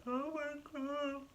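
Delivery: high, slow, drawn-out oh my God; mock overwhelmed gasp. Mother mimicking herself moved to tears, high and slow. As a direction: act out welling up at someone crying. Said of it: "I'm just like".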